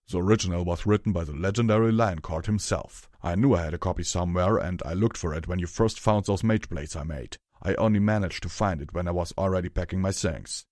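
lightly rough character voice; Hammer Chain's gruff voice. Acted. Hammer Chain tells Rarity about the book, mildly gruff. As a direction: tell it with a hint of gruff pride.

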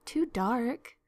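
rising, questioning repeat; incredulous echo. Acted. Marilla throws Anne's excuse back at her, incredulous. Marilla echoes Anne in disbelief.

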